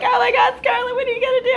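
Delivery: high, loud voice of an alarmed mother; worried mom. Retold or imitated. Mom on the phone, panicking about Scarlett, high and loud. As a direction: play the mom panicking for her daughter.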